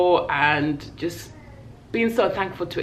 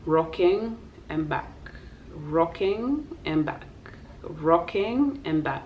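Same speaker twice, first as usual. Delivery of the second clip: slow rocking rhythm; 5 dB quieter, slower than usual. Shown as a demonstration. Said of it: "the baby was doing this".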